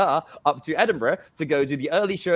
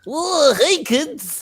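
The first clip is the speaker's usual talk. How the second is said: loud, very high, belted-out cartoony voice; 12 semitones higher, 6 dB louder than usual. Starting a bit, the speaker introduces the world's worst cartoon character: Marvin cartoon character voice. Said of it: "World's worst cartoon character".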